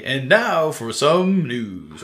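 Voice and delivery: drawn-out radio host intro; slow announcer voice. Retold or imitated. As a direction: stretch it like a podcast host. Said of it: "And so they say".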